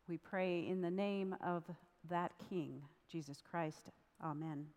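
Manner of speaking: measured, slightly hushed prayer voice; closing prayer. Real, not acted. Pastor closing a prayer before the reading, reverent. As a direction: pray it simply, with pauses between phrases.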